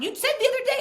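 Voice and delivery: high, loud indignant squawk; retold shrill accusation; outraged protest. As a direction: throw it back at him, pitch way up. Retold quarrel with husband.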